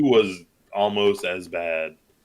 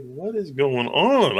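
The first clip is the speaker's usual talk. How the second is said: drawn-out, higher baffled question; mock-baffled, slow and pitched up; retold bewilderment; 5 semitones higher, slower than usual. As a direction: stretch it out slowly, playing up your confusion. Retold uncomfortable reaction to scene.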